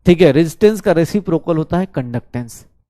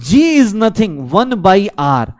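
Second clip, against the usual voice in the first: very slow, every word drawn out; dictating a formula word by word; slow dictation; 2 semitones higher, much slower than usual. Shown as a demonstration. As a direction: spell it out slowly so they write it down. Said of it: "physics की class enjoy कीजिए".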